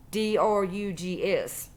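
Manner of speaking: D R U G S, letters said one by one, slowly; spelled out letter by letter. Acted. Spelling it so the word stays unsaid to the friend, slowly.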